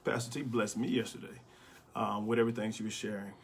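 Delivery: winded from running upstairs; out of breath. Real, not acted. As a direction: speak while catching your breath. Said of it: "I'm out of breath".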